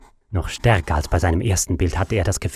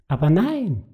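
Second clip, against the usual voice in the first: calm; 8 semitones higher than usual. Acted. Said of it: "sprach Nifaluzi gelassen".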